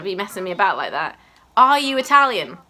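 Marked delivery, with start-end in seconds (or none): 1.6-2.6 louder, exasperated demand; mock scolding. Player ordering Huck to pick a nationality, mock exasperated. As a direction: tell them off in mock annoyance.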